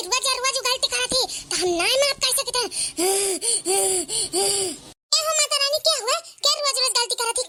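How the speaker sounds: put-on a wrathful goddess speaking through the girl; possessed goddess. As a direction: goddess rebuking the lazy girl through her body.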